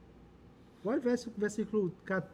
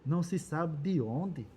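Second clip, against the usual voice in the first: scripture reading. A narrator's reading. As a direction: read out a challenge in measured phrases. Reads Nabal's scornful reply from scripture.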